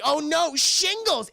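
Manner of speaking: mock alarm. Raptor landing on loose shingles, mock panicked cry. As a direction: squeal it like a startled raptor. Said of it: "and it's like".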